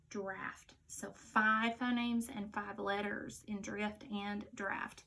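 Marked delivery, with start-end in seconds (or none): 0.1-0.7 soft whispered reveal; whispered answer. Shown as a demonstration. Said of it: "D, r, a, f, t".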